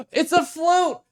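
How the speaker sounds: gasping, high, loud and drawn out; overjoyed, stretched-out exclamation; ecstatic discovery. Real, not acted. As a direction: squeal it slowly with real delight. Delighted discovery of pencil flute.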